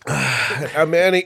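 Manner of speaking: 1 winded after a beer. Real, not acted. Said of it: "That's why he sounds like that".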